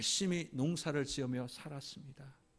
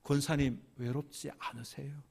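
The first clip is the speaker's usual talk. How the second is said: quiet question; 5 dB quieter than usual. Retold or imitated. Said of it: "조용히 묻습니다".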